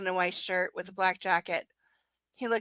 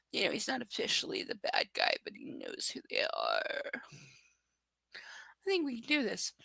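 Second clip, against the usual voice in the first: whisper; 9 dB quieter than usual. Pretend. Hushed secret-telling continues.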